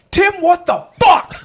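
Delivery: high, loud mock-mom yell through laughter; laughing impression of mom shouting; retold shocked yell. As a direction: yell it like a mom who just caught them. Mom catches boys smoking outside.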